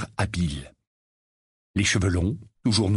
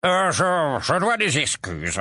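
put-on high, halting sleepy old rogue; sleepy grumble; 8 semitones higher, slower than usual. Mondingus waking up at the table, groggy. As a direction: stumble awake, confused. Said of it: "grogna une voix".

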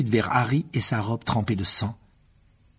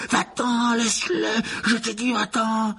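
higher, insistent shout; angry cry; 11 semitones higher, slower than usual. A narrator's reading. Riddle yells at the phoenix to leave Harry alone. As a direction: order the bird away. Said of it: "s'écria soudain la voix de Gédusor".

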